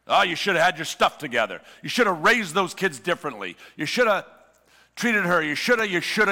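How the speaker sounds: fast, lecturing, finger-wagging tone; mock scolding. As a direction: nag like a smug churchgoer. Religion scolding the broken.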